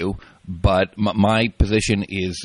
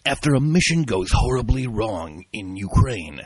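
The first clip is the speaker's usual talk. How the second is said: booming movie trailer narration; trailer announcer voice. Shown as a demonstration. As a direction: read it like an epic film trailer. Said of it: "in my trailer announcer voice".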